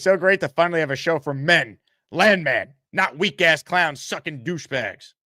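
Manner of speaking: beast voice. Acted. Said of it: "I tried to read that in a beast voice".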